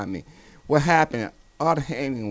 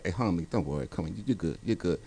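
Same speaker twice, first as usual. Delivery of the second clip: reassuring roommate; 4 semitones lower, 9 dB quieter than usual. Retold or imitated. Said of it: "And Connie said".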